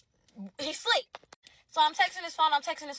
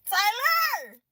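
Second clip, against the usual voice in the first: loud, higher shout of a name; calling out; 8 semitones higher, 6 dB louder than usual. Acted. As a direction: call across the room to Tyler. Calling out Tyler Perry.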